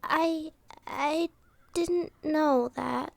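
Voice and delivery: soft, slow and faltering; taken aback, trailing into a hushed reply; quiet, halting surprise. Acted. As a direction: stumble softly over the admission. Stunned by the princess's revelation.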